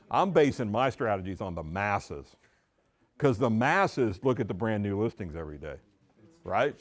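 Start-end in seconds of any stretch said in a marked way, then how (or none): none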